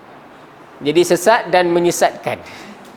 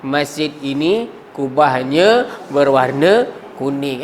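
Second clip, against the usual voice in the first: slow example sentence; 5 semitones lower, slower than usual. Shown as a demonstration. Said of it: "orang Arab buat ayat".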